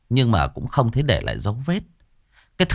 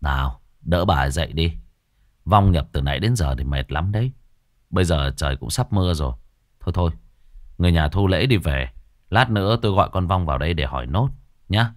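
lower, unhurried instructions to the family; a hint of a relaxed master; lower, easy-going exorcist; 5 semitones lower than usual. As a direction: settle everyone down casually.

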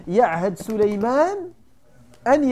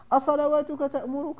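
higher, mocking rise on أصلواتك; mocking question; 6 semitones higher than usual. Shown as a demonstration. Salih's people taunting the prophet, mocking rise. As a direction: sneer the question up at the end. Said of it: "التهكم به عليه الصلاة والسلام".

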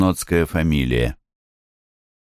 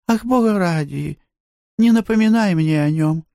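put-on high-pitched girlish plea, a touch faster; pleading girl; 13 semitones higher than usual. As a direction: beg her friend to stop, voice up high. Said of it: "с гримаской взмолилась". (умоляющий девичий голос, высоко)

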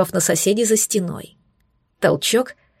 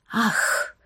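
breathy gasping moan, softer; 2 semitones higher, 6 dB quieter than usual. A narrator's reading. Heroine moaning in the shower, soft moan. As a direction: let a short moan slip out. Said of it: "Стон слетел с моих губ".

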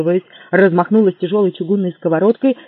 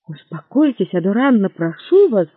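peaceable; 2 semitones higher, 3 dB louder than usual. Acted. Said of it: "миролюбиво произнёс Лафайет".

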